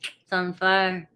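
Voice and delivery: slow slangy drawl; slang accent. Pretend. Host hyping the Leos in the chat, slang accent. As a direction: stretch it out in a put-on slang accent. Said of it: "why I'm talking like this".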